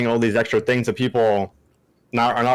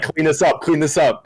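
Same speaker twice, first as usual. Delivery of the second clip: raised, louder barking order; mock commander order; 6 semitones higher, 3 dB louder than usual. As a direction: bark it like a squad leader. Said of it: "he's like, he's like".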